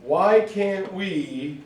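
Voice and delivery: Why can't we stretched for the rhyme; slow rhyme lead-in. Shown as a demonstration. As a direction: draw out Why can't we slowly. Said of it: "come on, it rhymes".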